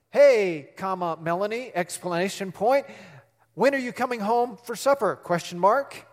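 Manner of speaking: reading punctuation aloud like a dictation; mild imitation of texting by voice; dictating to Siri. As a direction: spell out every comma and question mark. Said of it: "heard me talk like that".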